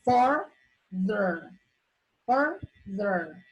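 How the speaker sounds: "further" split into fur and ther; a clear gap inside "further"; syllable division. Shown as a demonstration. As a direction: sound out "further" slowly in two separate beats. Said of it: "you have your syllable division".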